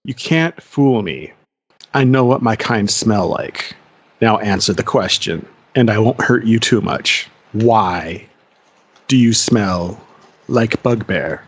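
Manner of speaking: put-on young bugbear interrogating the prisoner, lightly low and threatening; bugbear jailer. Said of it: "And he goes".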